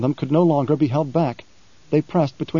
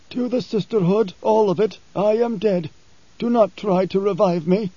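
a higher, calm preacher voice; lightly voiced preacher stating a fact; 6 semitones higher than usual. Preacher telling Halleck he is dead, calm. Preacher speaks of his death.

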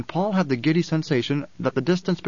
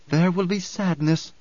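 measured, higher-pitched solemn prophecy; intoning; 4 semitones higher than usual. A narrator's reading. Alia foretells sadness to the crowd, intoning. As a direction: intone it like an oracle. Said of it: "Alia intoned".

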